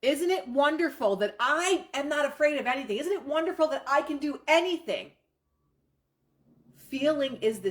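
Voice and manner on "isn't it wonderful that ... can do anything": raised, higher and louder affirmations; excited incantation. Shown as a demonstration. Coach demoing an incantation for students, excited and louder. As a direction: chant it like a pep rally in your head. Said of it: "scream it".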